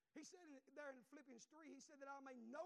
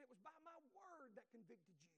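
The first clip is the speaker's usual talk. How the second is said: God's answer, quiet; 6 dB quieter than usual. Retold or imitated. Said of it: "And he said".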